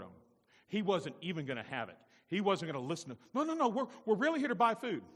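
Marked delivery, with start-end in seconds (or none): 3.3-5.0 high, loud protest; acted urgent insistence; insistent pleading. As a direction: plead to be believed, loudly. Brothers plead with Joseph.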